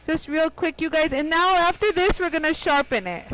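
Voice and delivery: speaking through a face mask; muted voice behind a mask; muffled by a mask. Real, not acted. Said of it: "So if I sound a little muted, I have a mask on".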